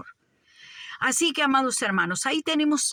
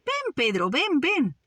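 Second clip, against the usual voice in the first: voicing the Lord's call; 6 semitones higher, slower than usual. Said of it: "El Señor le dijo".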